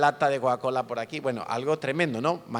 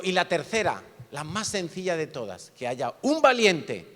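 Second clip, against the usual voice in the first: a bit of a sergeant; 4 semitones higher, 3 dB louder than usual. Retold or imitated. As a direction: dare the culprit to step forward. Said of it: "como un poquito sargento".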